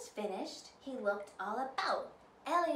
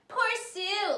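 mocking laugh; 10 semitones higher, 8 dB louder than usual. A narrator's reading. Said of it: "laughed Nell".

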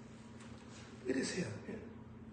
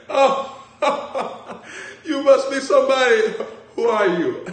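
put-on high, loud, slow gushing old lady voice; imitating old white lady; 10 semitones higher, 9 dB louder, slower than usual. Preacher imitating an older white lady fan, gushing. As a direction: gush like a starstruck older lady. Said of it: "They said".

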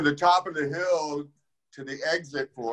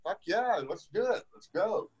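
excited yes; 8 semitones higher, 4 dB quieter than usual. Retold or imitated. Teen gets the call to come.

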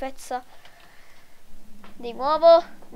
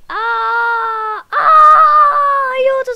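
mock shout; 7 semitones higher, 7 dB louder, much slower than usual. Gore in game.

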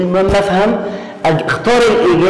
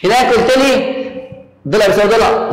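student voice; 5 semitones higher than usual. Acted. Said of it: "تعالى لي بقى يا مستر".

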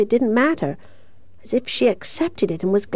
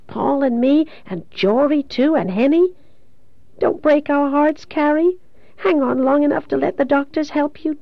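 higher-pitched, urgent plea; anguished pleading; 6 semitones higher than usual. Acted. Kathy begging dying Carrie not to give up, pleading. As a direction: beg her to hang on.

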